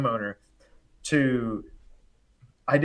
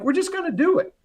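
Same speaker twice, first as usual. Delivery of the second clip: put-on confidence. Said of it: "I had to be confident".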